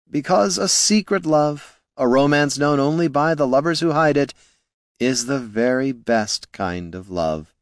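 wistful bard. A narrator's reading. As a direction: draw it out high like a lovesick romantic. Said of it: "with a wistful sigh".

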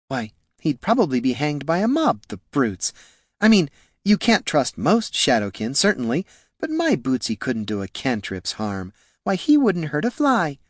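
lightly voiced lady defending her pet; a hint of an indignant, doting lady; fretful noblewoman. Jelana excusing Boots to the attendant, lightly voiced fretful noblewoman.

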